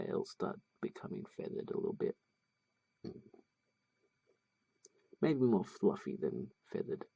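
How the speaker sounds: talking through hiccups. Real, not acted. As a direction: speak with hiccups breaking in. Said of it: "Sorry, I've got the hiccups".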